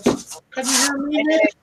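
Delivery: high calling voice. Real, not acted. Checking if friend hears on call.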